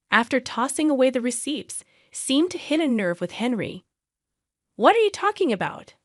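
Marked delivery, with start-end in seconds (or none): 4.8-5.9 high, indignant shout-back; angry outburst. Acted.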